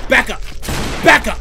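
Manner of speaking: loud, high, short commands; urgent order. Real, not acted. Player warns monster off, urgent order.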